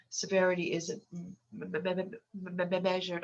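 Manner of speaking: stuffy nose, stuck on m sounds; stuttering with blocked nose. Real, not acted. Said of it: "I'm getting more stuffy".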